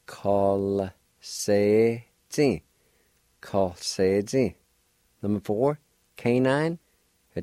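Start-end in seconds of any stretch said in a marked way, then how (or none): 0.1-2.6 very slow demo. Shown as a demonstration. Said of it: "like this". 3.4-4.6 steadier demo. Shown as a demonstration. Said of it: "like this".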